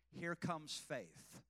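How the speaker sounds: slow, quiet, drawn out; slow emphasis. Shown as a demonstration. Pastor leading the church to repeat it slowly. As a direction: give them each word slowly. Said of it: "Say it".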